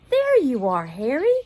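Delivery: put-on high, loud girl's call. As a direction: call across the lawn to the dog. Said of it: "called the smaller girl".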